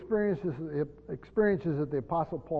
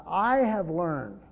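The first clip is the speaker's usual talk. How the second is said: slow, with "I" drawn out emphatically; emphatic I; much slower than usual. Shown as a demonstration. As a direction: lean on the word "I" and take the phrase slowly. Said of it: "it is very emphatic".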